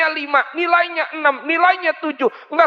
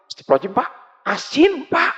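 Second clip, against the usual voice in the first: shocked wife; 3 semitones higher, much faster than usual. Acted. Wife tastes own salty soup.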